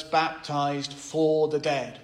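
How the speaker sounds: slow "baptized for the dead" with "for" leaned on; stress on for. Shown as a demonstration. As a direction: draw it out slowly and weigh the word "for". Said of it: "lay emphasis upon the preposition for".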